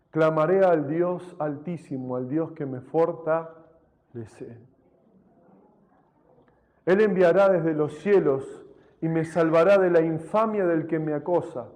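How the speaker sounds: measured, solemn reading; scripture reading. Acted. Preacher reading the psalm to the church, solemn. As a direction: read the psalm with reverence.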